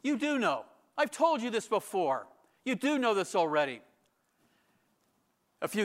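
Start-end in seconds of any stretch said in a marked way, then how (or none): 0.0-3.8 chastising. Retold or imitated. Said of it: "a way of sort of chastising them".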